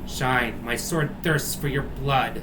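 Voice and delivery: slow, menacing possessed swordsman; lightly voiced dark knight threat, drawn out; deep villain voice. Possessed Dario threatening Shine, slow menacing villain. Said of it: "Riddle has a deep voice now".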